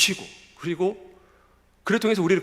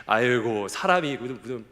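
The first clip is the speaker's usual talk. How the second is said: mocking disbelief; 5 semitones lower than usual. Youths doubting the prophet went up to heaven, mocking disbelief. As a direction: scoff with a slow, laughing start. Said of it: "그거를 안 믿는 겁니다".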